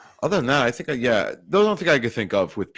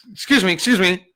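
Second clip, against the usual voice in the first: higher, mildly flustered excuse me; flustered man on the train; 9 semitones higher, 4 dB louder than usual. Retold or imitated. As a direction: play the uneasy guy brushing off a hand. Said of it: "He goes".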